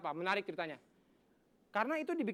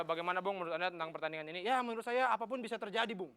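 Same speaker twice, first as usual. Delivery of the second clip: commentator banter; 3 semitones lower than usual. Acted. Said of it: "Komentator bola juga suka aneh ngomongnya".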